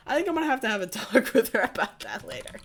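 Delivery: high, loud imitation of a classmate; loud retold retort. Classmate answering about his girlfriend, loud imitated retort.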